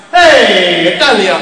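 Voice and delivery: a hint of a mock Italian accent, called out loud; lightly faked Italian accent, tossed off as a joke; bad Italian accent. Preacher mocks a dual-citizen politician in a weak Italian accent. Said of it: "accents is not my forte".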